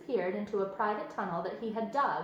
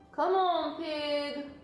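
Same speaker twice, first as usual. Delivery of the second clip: farmhand calling out to the pig, higher and louder; Lurvy calling; 6 semitones higher, 3 dB louder, much slower than usual. A narrator's reading. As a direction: call the pig from outside.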